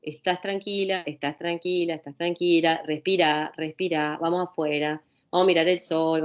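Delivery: suave y grave, tranquilizadora; acompaña con calma a la paciente; voz calmante. Shown as a demonstration. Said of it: "en cambio, decirle". (a la paciente en crisis, con calma y suavidad)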